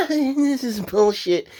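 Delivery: high, slow, drawn-out laughing complaint; laughing exasperation. Real, not acted. Host giving viewers a verdict, laughing exasperation. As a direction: laugh through the words, stretching them out.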